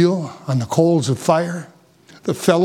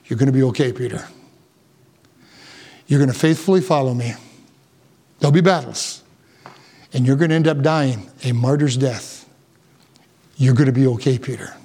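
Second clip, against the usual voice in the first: gentle reassurance; 3 semitones lower than usual. Retold or imitated. Jesus comforting insecure Peter, low gentle reassurance. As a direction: tell him kindly he'll be alright. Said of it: "Jesus says to Peter".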